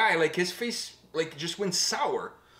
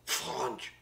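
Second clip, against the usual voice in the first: a lightly put-on scolding old French man; imitating French guy; 3 semitones lower than usual. Retelling the Montreal man scolding them, light mock accent. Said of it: "an old French guy in Montreal".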